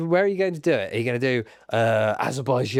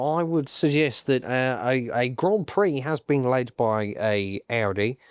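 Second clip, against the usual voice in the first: slow, nasal pompous voice; slower than usual. Pretend. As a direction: pinch it through the nose, slowly. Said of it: "I'm gonna go full nasal voice there".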